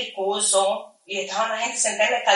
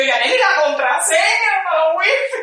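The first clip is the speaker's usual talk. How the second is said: raised, high call across the street; 8 semitones higher, 4 dB louder than usual. Retold or imitated. Calling out to Yaneli for the wifi password while running. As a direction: shout her name over the noise.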